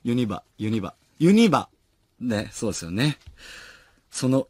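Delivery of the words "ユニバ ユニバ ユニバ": put-on Kansai intonation; fake Kansai accent. Shown as a demonstration. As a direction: try out ユニバ with a put-on Kansai accent, building to a loud final try. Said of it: "エセ関西弁で".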